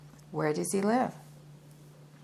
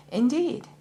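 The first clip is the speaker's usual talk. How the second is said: surprised; 9 semitones higher, 5 dB louder than usual. A narrator's reading. Narrator surprised by soldier claim.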